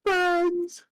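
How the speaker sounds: slow, grand, ending high; milk the pathos; mock dramatic. Mock dramatic speech on friends.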